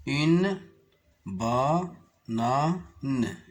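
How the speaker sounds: « Une » détaché puis ba-na-ne; détache chaque syllabe de « banane »; découpé en syllabes. Shown as a demonstration. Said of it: "Je découpe les mots en syllabes". (syllabes détachées)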